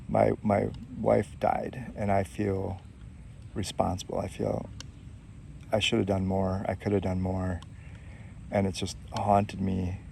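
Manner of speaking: understated grief, retelling his confession; choked up. Retold or imitated. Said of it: "he really got choked up".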